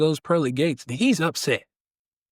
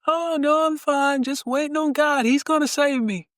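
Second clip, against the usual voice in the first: much higher, breezy refusal; stubborn stranded man; 12 semitones higher than usual. Acted. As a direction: wave the boat off, calm and sure. Joke: stranded man refuses again.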